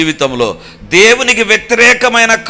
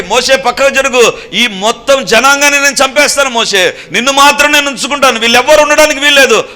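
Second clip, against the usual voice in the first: angry God; 7 semitones higher, 4 dB louder than usual. Acted. God's furious threat to Moses.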